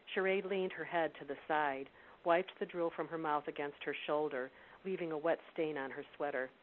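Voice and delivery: steady, measured storytelling read; story narration. A narrator's reading. Reads novel excerpt aloud.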